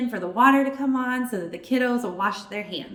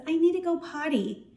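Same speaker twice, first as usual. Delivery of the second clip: put-on little child; 5 semitones higher than usual. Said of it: "a little two-year-old runs up to you and says".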